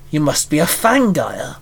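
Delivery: odd, menacing monster voice; monster growl. Acted. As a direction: growl like a beast sizing him up. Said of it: "the hyena Fangire growled".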